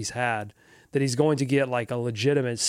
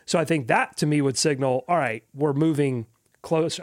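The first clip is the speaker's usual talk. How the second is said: muffled, as if underwater. Real, not acted. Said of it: "I sound like I'm underwater right now".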